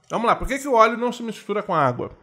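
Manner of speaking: talking through a mouthful of chocolate; laughing with a full mouth of chocolate. Real, not acted. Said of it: "tô com a boca cheia de chocolate".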